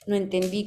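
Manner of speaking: "No entendí" with the final í accented; stress on final í. Shown as a demonstration. Teacher repeating the accented past-tense example, stress on final í of "entendí". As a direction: land on the last í of "entendí". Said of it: "con un acento en la I".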